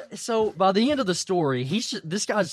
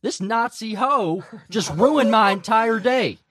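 mock angry rant; 4 semitones higher, 5 dB louder than usual. Retold outburst of red-faced grandfather.

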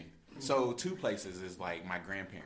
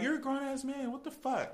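much higher mock Jamaican accent, scolding; Jamaican accent imitation. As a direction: imitate a friend's thick Jamaican accent, exasperated. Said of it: "her accent gets real thick".

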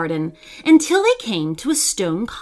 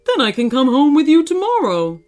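friendly storybook creature, hopeful and hospitable; lightly voiced kindly monster; 3 dB louder than usual. Monster invites the sisters in for dinner, lightly voiced kindly character. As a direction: lightly play a gentle monster welcoming guests.

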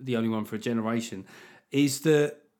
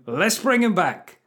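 slow, louder sarcastic line; mocking; 6 semitones higher, 7 dB louder, slower than usual. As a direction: sell the sarcastic idea. First take.

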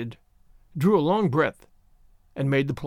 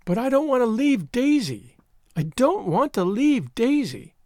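mildly tearful wail; 8 semitones higher than usual. A narrator's reading. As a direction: wail it like an upset girl, without real sobs. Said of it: "storm of sobs".

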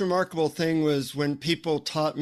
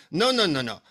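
lightly voiced scolding guru, Indian-accented; a hint of stern Indian teacher; 2 semitones higher than usual. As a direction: imitate a guru sternly correcting a pupil. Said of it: "looks at me sternly and he says".

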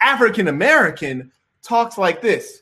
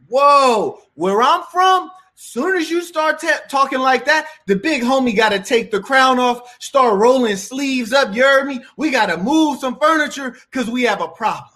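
raised, lightly hammed street boss warning; half-joking tough guy puffing up to settle a problem; big homie voice; 5 semitones higher than usual. Street big homie persona rant.

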